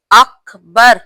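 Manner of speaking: अकबर said alone, loud, rising; separated word. Shown as a demonstration. Teacher splits the takbir word by word. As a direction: set अकबर apart, loud and clear. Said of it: "अलग है".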